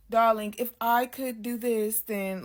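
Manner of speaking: lightly voiced elegant lady from long ago; elegant lady of another time. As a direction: mimic a refined, old-fashioned lady a little. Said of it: "the voice was very elegant".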